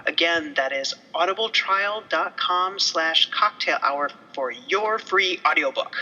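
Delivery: steady sponsor read, even and clear; podcast sponsor read. Acted. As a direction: read the ad copy straight. Reads sponsor ad.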